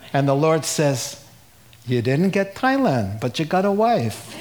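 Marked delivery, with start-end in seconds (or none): 1.9-4.3 put-on light Jewish accent as God; hint of New York Jewish God voice. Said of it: "God speaks with a Jewish accent".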